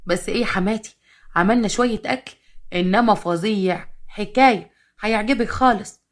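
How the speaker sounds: slow, sweet-talking flattery; butter up the mother-in-law; flattering. Acted. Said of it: "قالت بمحلسة". (مجاملة متملقة)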